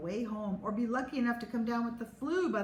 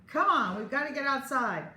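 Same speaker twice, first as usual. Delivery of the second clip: yelling; 8 semitones higher, 3 dB louder than usual. Acted. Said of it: "I yelled".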